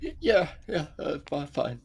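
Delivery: stammering, voice jumping high; shaky nervous voice. Acted. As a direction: nervously insist you're fine. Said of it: "You don't sound very fine".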